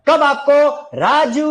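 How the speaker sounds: राजू with a long drawn-out ऊ; slow, pulling the ऊ in राजू; stretched राजू. Shown as a demonstration. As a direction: hold the ऊ in राजू a long beat. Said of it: "अब".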